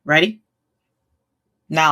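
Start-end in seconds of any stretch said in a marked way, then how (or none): 0.0-0.4 belly sucked in tight, tense; sucking in stomach. Shown as a demonstration. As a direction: speak with stomach pulled in. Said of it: "I'm gonna do it".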